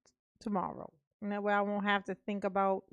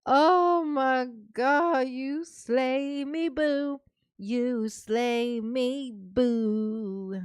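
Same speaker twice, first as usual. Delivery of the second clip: sassy drawl; 3 semitones higher, much slower than usual. Real, not acted. Drawn-out sassy praise.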